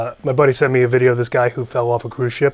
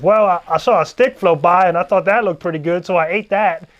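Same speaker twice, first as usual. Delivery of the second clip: country twang; 4 semitones higher than usual. Retold or imitated. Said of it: "he's got a country twang".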